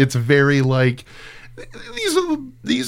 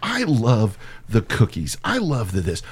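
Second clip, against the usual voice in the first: quiet character voice; 6 semitones lower, slower than usual. Retold or imitated. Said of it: "how great would it have been if it was just".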